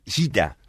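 "cita" por señorita, como "shita"; recortá señorita a "cita", con sh; pronunciación porteña parda. Shown as a demonstration. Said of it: "¿Cómo se dice?". ("cita" con ese arrastrada)

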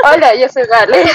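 laughing. Real, not acted. Blooper intro breaking up.

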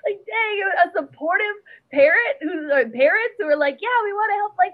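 high, excited rush; high, animated, envious gush. Real, not acted. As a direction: gush about supportive parents. Excited laughing envy.

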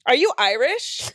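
imitating a taunting popular girl. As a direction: pitch it up like a popular girl baiting a classmate. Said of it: "the most popular girl in school".

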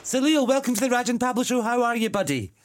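high, loud, fast boxing-ring intro; ring announcer. Pretend. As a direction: announce him like a title fight. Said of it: "you sound like a ring announcer".

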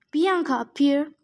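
mildly intoned summons; intoning. A narrator's reading. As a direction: call up the spirit with measured solemnity. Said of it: "Nico intoned".

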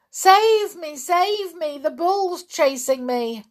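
high, loud wail for rescue; panicked cries. A narrator's reading. Cecil flees a make-believe bull to Missus Andrews, panicking. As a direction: plead for help in sheer terror. Terrified boy flees to woman.

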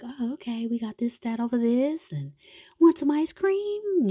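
high, sing-song nurse offering ice cream. Retold or imitated. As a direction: coo it like a sweet nurse. Nurse voiced in retold scene.

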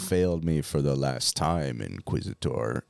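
low menacing Vader impression; deep menacing villain. Quoting Vader line.

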